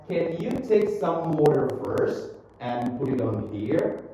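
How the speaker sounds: slow and measured, linked words; slow model reading. Shown as a demonstration. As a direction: read slowly for learners to repeat. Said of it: "Read after me again".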